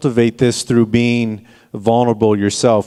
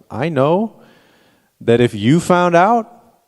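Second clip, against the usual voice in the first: imitating daughter; 8 semitones higher, slower than usual. Quoting daughter Brooklyn.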